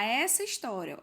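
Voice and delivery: "essa" destacado, mais forte; ênfase em "essa". Shown as a demonstration. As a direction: destaque "essa" como alerta na pergunta. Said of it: "Olha, cuidado com a pergunta". (ênfase na palavra "essa")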